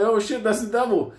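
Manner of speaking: high squeaky mock fright. Comic imagining the devil in the desert, squeaky scare. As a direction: yelp it like you just saw Satan.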